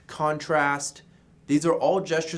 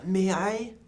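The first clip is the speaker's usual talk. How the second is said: higher-pitched polite appeal; 4 semitones higher than usual. Shown as a demonstration. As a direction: ask as a gentle request. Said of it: "To appeal".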